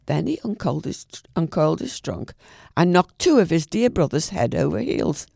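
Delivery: lively bedtime storytelling voice; storyteller reading Kipling aloud; story narration. A narrator's reading. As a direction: read it like a bedtime story to a child.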